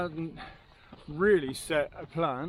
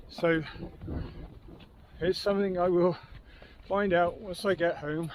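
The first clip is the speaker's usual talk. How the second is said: out of breath. Real, not acted. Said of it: "I'm out of breath".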